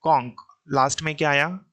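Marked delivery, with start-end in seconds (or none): 0.0-0.6 कॉन्क said with a hard k sound at the end; teacher modelling कॉन्क with a final k; showing the pronunciation. Shown as a demonstration. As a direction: say कॉन्क clearly, ending on a k. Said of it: "तो कैसे पढ़ोगे?".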